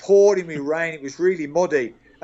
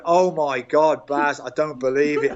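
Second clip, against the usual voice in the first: prankster in a pillowcase mocking Baz with fake shock; mock disbelief.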